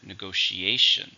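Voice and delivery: "Negotiation" drawn out, A stressed; stress on fourth syllable. Shown as a demonstration. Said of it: "stress on the fourth syllable".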